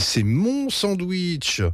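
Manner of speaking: high, drawn-out possessive wail; yelping child. A narrator's reading. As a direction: squeal and stretch every word. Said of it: "glapit Betty". (glapissement aigu et traînant)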